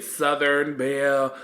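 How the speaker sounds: lightly hammed-up, slow Southern belle; drawn-out, mocking religious belle. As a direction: tease a pious Southern belle, stretching it out. Mocks a Southern belle persona.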